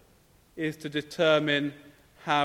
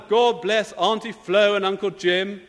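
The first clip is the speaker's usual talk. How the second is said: put-on higher, loud boy's prayer, building to a near shout; louder and louder; 5 semitones higher, 6 dB louder than usual. Boy praying so Granny hears his bicycle wish, louder and louder. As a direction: crank up the prayer line by line, peaking on the wish. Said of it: "And then it gets louder and louder".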